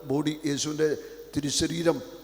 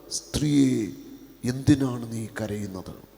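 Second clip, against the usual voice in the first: gentle question; 4 semitones lower than usual. Acted. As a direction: ask her tenderly. Jesus asks gently. (സ്നേഹത്തോടെ ചോദ്യം)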